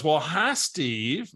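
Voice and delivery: a hint of a friendly woman calling; Barbara's voice. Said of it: "I gotta use her voice".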